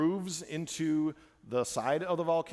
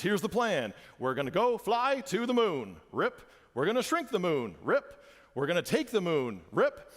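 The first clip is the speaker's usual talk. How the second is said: Gru voice; 3 semitones higher than usual. Retold or imitated. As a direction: lightly play the cartoon villain. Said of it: "and he goes".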